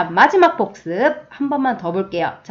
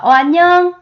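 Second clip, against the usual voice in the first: friendly hello; 8 semitones higher, 7 dB louder than usual. Acted. Teacher voiced greeting back.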